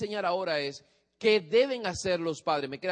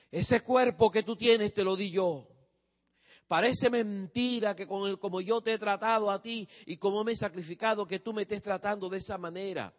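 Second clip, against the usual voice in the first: a hint of a hurt, reproachful parent, higher; guilt-tripping parent; 3 semitones higher than usual. Parent guilt-tripping the teenager, mock reproach. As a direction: lay on the guilt like a wounded parent. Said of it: "¿Cómo manipula un padre por el amor?".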